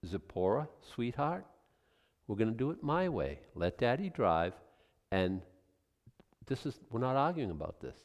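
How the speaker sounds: soft, calm and firm, like settling a family argument; gently but firmly take the lead; soft husband to wife. Pretend. Husband softly telling his wife he'll decide. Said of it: "you say".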